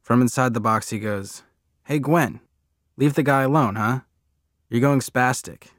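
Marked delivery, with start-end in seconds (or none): 1.8-5.7 put-on higher, louder cheeky kid; boy calling out. A narrator's reading. Freak heckling his mother from inside a box, calling out. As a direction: call it out as a teasing telling-off.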